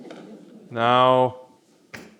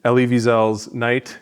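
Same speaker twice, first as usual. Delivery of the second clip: ordinary talk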